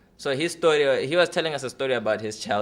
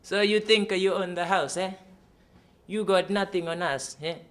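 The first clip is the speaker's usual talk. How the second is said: tough Italian men; 6 semitones higher than usual. Retold or imitated. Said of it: "they go".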